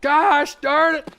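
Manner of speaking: loud, high, slow squeal; shrieking high-pitched "gosh darn"; high squeaky exclaim. Retold or imitated.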